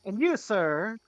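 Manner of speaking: a lightly voiced courteous gentleman; Jean-Claude's farewell. Rival fish baron bowing out of the manor, lightly polite. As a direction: tip the hat and take polite leave. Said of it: "He says".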